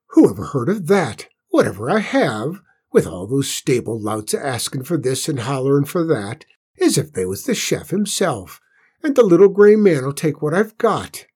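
rustic cook ranting; loud, rough cook grumbling; rough country cook. Acted. Cook rants in dialect.

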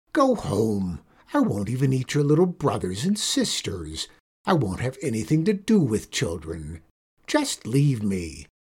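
lightly voiced old witch, tired and pleading; weary witch. Witch voice continues.

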